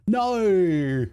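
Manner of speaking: long, high "No" ending in er; hammed-up R on the end of "No"; added R ending. Shown as a demonstration. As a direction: stretch "No" up high into "no-errr". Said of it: "add er at the end of a word".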